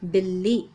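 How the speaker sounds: "बिल्ली," with a light half ल and then a full ली; "बिल्ली," आधा ल हल्का, दूसरा ल पूरा; doubled l. Shown as a demonstration. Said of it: "पहले ल की आवाज़ कम आ रही है और दूसरे ल की आवाज़ पूरी".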